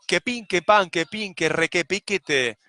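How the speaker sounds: pin and pan snapped out like hammer taps; hammering sounds. Shown as a demonstration. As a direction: tap out the syllables like a hammer on wood. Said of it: "creando el edificio a martillazos".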